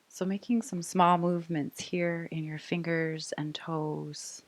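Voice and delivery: calm, even voice leading small movements; guided meditation. Real, not acted. Yoga teacher waking fingers and toes, calm guided meditation. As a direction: ease them gently out of stillness.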